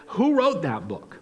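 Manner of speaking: hushed, breathy aside; whispered question. Shown as a demonstration. Pastor teasing the congregation with the question, whispered. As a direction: lean in and whisper it.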